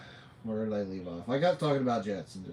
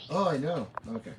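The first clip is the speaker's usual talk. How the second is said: whispering; faster than usual. Real, not acted. Whispering back to son.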